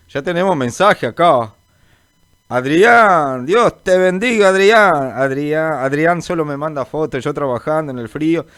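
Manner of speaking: ordinary talk, nothing marked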